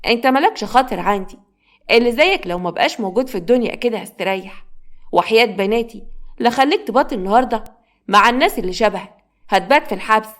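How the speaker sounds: spiteful hatred. Acted. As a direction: scold the boy with open contempt. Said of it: "بصت له بغل وبكره".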